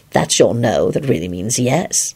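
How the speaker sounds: low, slow teasing; understated cheerful tease; Lupin, cheerful. A narrator's reading. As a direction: tease a loved one lightly, low-voiced. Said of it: "he told her cheerfully".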